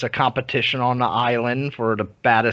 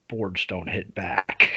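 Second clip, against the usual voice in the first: lower, softer and slow deadpan; cool movie line; 4 semitones lower, 4 dB quieter, slower than usual. Retold or imitated. Bruce Lee to scarred fighter, low slow deadpan. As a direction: deliver it dry and unimpressed. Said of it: "Bruce Lee just looks at him".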